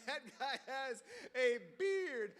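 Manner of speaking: slow laughing repeat; laughing disbelief. Retold or imitated. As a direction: laugh through the amazed line.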